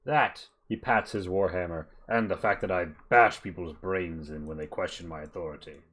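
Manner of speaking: a lightly voiced gruff mercenary chief; bugbear boss. Bugbear leader sizing up the party, lightly voiced and bluff. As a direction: boast a little, then make the offer.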